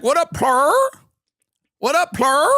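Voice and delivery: loud, high, hyped-up bro voice; over-the-top bro greeting. Retold or imitated. Mocking an overfriendly waiter, hammed-up bro greeting. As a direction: ham up a too-cool dude greeting. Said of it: "he was like".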